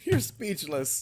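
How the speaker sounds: hushed mock whisper. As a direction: whisper it slowly, teasing. Teasing that the co-host is speechless.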